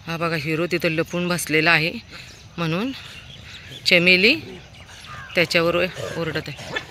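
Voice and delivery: ordinary talk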